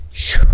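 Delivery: puffed-out exhale, a real loud breath out; winded phew while showing the sewing room; breathless phew. Real, not acted. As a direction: blow out a tired breath after talking too long. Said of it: "I'm running out of breath".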